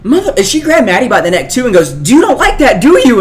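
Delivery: angry mom. Retold or imitated. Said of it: "And my mom goes".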